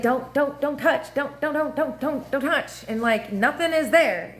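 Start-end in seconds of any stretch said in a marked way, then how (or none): 0.0-2.8 mock pleading. Oversensitive after orgasm, pleading.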